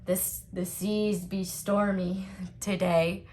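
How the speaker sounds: put-on slow, gruff old seafarer voice; slow mock sea-dog voice; old sailor man. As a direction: pretend to be a weathered sailor. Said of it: "an old sailor man just be like".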